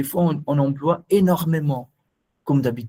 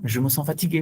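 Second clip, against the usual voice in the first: quicker take; 4 dB quieter, faster than usual. Shown as a demonstration. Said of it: "ça change tout".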